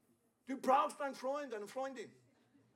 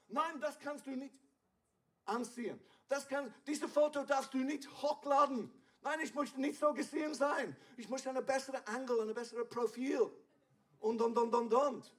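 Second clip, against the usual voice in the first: mock fussy selfie-taker; 3 semitones higher than usual. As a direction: play the vain friend fretting over a bad angle. Voicing vain image-worried person.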